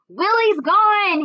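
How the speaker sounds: put-on high, loud, slow child's shout; a scared boy yelling; little brother yelling at his sister; hollered. A narrator's reading. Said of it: "he hollered".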